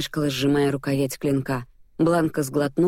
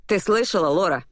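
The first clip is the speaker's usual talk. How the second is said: higher, thrilled outburst; gleeful exclamation; delighted call; 4 semitones higher than usual. A narrator's reading. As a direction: crow with glee. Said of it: "в восхищении крикнул он мне".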